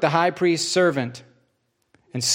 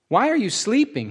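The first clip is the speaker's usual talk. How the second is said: rebuking; 8 semitones higher than usual. Acted. Jesus rebukes sleeping disciples.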